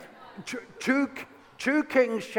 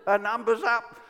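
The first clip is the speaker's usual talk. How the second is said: mock panic, rising higher; lightly hammed-up cries of doom; terror-struck servant; 4 semitones higher, 3 dB louder than usual. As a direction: imitate a servant sure all is lost. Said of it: "terror-struck".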